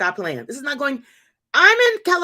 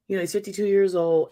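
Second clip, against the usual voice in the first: talking fast; 3 semitones lower, faster than usual. Retold or imitated. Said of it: "she's talking fast".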